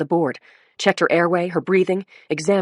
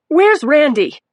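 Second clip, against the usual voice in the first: sharp, higher, louder urgent question; urgent demand; 9 semitones higher, 7 dB louder, slower than usual. A narrator's reading. Dazed mother demanding her boyfriend. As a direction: demand it, agitated. Mackie demands Randy, agitated.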